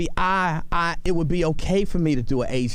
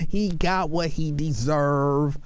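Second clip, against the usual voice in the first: slow mock verdict; slower than usual.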